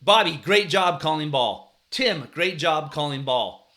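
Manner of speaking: drawn-out coach praise; positive reinforcement. Retold or imitated. Coach praising kids who were doing it right, encouraging call. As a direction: call out slow, emphatic praise to players. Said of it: "you know, positive reinforcement".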